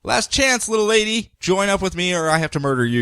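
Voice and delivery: lightly hammed-up villain threat; mustache twirling villain. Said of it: "steps out and goes".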